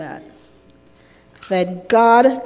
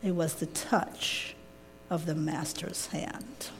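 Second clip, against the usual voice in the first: much softer, gently smiling; 4 semitones lower, 16 dB quieter than usual. Acted. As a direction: let it fall to a soft, smiling close. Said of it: "and he said with a smile".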